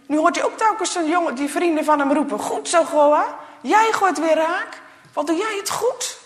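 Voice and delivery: cheering friends. Acted. Friends cheering Goa on, loud and high. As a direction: call out like boys cheering a friend.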